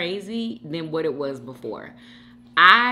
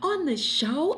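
mock whisper; 8 semitones higher, 4 dB quieter than usual. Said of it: "Aubrey is just sitting in the back like".

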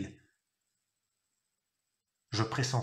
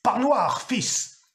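ordre crié, bien plus aigu et plus fort; rude et commandeur; 8 semitones higher, 5 dB louder, much slower than usual. A narrator's reading. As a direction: aboie l'ordre comme un père possédé. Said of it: "Sa voix fut rude et commandeuse". (le père affamé exige sa viande, rude et criant)

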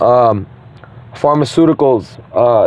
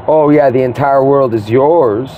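mock agreement; slower than usual. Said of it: "was he acting like".

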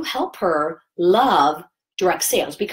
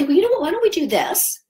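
sound fun. Shown as a demonstration. Consultant pitching a fun party to a customer, bright and upbeat. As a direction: make the offer sound like a treat. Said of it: "just make it sound fun".

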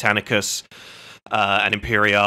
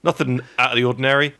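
casual dad, laughing; 3 semitones higher than usual. Retold or imitated. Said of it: "He's like".

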